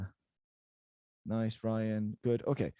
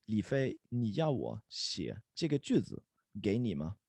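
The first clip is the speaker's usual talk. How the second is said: slowly, with gaps between phrases; measured pace for learners to follow; slow model sentence; 3 dB quieter than usual. Shown as a demonstration. Teacher repeating the whole question for students, slowly. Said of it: "Let's say that slowly together".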